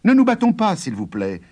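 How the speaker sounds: high, pleading farmer; calm the giant down, high. Acted. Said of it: "dit Jude".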